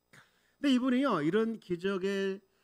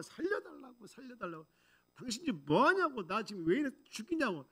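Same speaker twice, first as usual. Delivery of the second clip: high, half-voiced mock screaming for mercy; imitated pleading cries; 7 semitones higher than usual. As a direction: act out a patient begging to be spared. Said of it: "그 사람 소리 지르는지".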